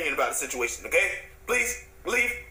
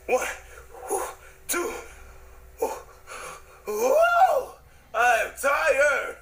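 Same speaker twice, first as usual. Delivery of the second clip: hammed-up exhaustion; 7 semitones higher, much slower than usual. Big Red showing off push-ups, hammed-up exhausted yell. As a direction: overplay being worn out. Fake exhausted after one rep.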